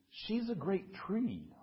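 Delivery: lightly voiced, unhurried tree; mumbling willow. A narrator's reading. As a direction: draw it out as a musing willow. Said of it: "mumbled the willow".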